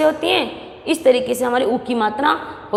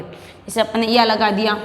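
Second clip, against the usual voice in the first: ordinary talk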